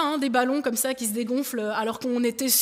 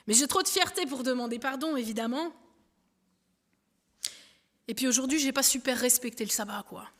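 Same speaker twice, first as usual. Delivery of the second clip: usual speaking voice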